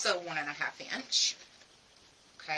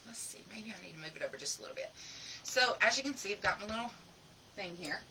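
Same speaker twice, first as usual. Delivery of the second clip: dry mouth; 7 dB quieter, faster than usual. Real, not acted. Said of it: "my mouth is so dry".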